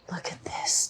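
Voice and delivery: soft whispered look at this; hushed invitation. Real, not acted. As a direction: whisper to draw the viewer close. Hushed showing in store.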